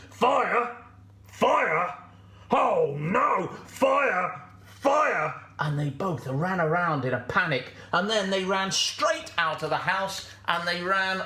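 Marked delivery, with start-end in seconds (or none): 0.1-5.3 loud, high yells of alarm; panicked shouting. Acted. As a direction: shout in mounting animal panic. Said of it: "the wolf and the fox both shouted".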